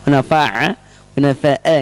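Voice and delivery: "hunafa'a" ending on a clear glottal hamzah. Shown as a demonstration. Teacher correcting the final hamzah. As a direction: stop cleanly on the hamzah of "hunafa'a". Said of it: "Bukan a".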